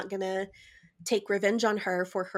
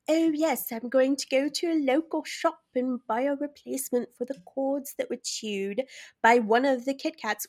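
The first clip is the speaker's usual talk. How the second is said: imitating cat lady; 4 semitones higher than usual. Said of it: "she goes on and on".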